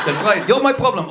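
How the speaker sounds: a mild, cool put-down; Israeli retort. Retold or imitated. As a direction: settle it calmly. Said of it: "tough guy".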